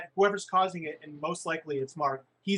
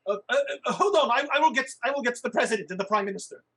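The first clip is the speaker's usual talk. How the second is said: flustered gnome voice; 5 semitones higher, 3 dB louder, faster than usual. Acted. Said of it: "gnome answers in character".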